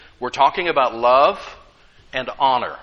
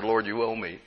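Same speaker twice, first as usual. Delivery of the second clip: retold whisper; 5 semitones lower, 6 dB quieter than usual. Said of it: "I just whispered to him in prayer".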